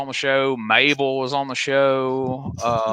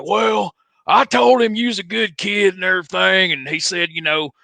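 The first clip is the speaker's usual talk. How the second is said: a hint of Tommy Rich; 4 semitones higher than usual. Tommy retells cop talk.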